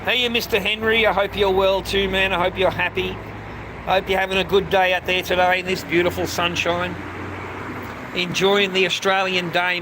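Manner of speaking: beam good wishes out to everyone; cheery greeting. Real, not acted.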